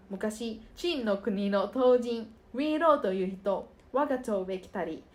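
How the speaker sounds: soft, careful reading of the Uirou-uri text; Japanese recitation drill. Shown as a demonstration. Student demonstrating her articulation textbook piece, recited softly. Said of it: "recites articulation text".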